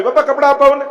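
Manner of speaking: put-on high-pitched little boy whining for toys; child pleading. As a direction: beg like a small boy tugging his father's hand. Child begging father at fair. (બાળકની જેમ કાલાવાલા કરતો અવાજ)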